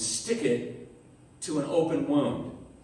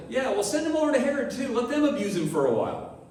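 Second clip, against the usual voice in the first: dismissive Pilate; 6 semitones higher, faster than usual. Retold or imitated. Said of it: "It's like".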